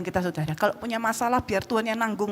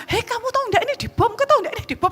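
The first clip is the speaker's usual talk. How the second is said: much higher, louder panicked yell; panicked shouting; 12 semitones higher, 4 dB louder, faster than usual. Retold or imitated. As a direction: shout it running room to room. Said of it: "Saya teriak-teriak". (berteriak panik, suara tinggi)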